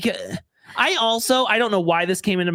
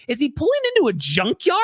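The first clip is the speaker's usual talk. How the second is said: mock disbelief; 8 semitones higher than usual. Incredulous reaction.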